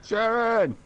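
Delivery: high, called-out Brummie name; hammed-up Brummie cry; Birmingham accent. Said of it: "nobody would want the Birmingham accent".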